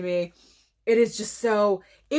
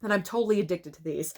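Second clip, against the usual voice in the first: running out of breath; breathless, rushing the end. Real, not acted. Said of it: "I ran out of breath for a second".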